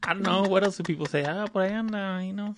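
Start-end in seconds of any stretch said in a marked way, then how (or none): 1.2-2.5 higher, evasive mom voice with a laugh; evasive mom impression. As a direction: shrug off the question about the father, laughing. Mocking mom dodging dad question.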